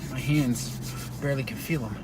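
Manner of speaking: cold, halting speech; shivering. Real, not acted. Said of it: "I know I'm talking a little slow".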